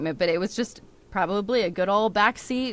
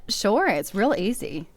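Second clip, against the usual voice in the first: easygoing Southern US accent. Shown as a demonstration. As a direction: put on a Southern twang on request. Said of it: "Can we hear it right now".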